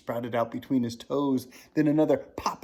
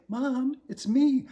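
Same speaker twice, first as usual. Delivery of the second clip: pleading; 13 semitones higher, 7 dB louder, slower than usual. Acted. Boy pleading with mother.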